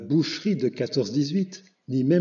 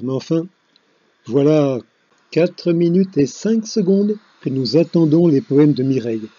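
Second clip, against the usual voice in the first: loud scolding; 6 dB louder than usual. Acted. Host scolding the late reader.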